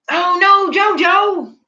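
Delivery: high, loud excited cry of the name; squealing JoJo over and over; excited calling out. Real, not acted. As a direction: burst out calling the name, winding down.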